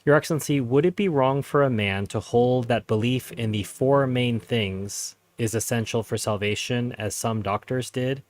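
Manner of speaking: measured, slightly slowed read-aloud, taking care over the phrasing. Real, not acted. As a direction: read the question out slowly and carefully. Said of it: "I'll try to read this slowly".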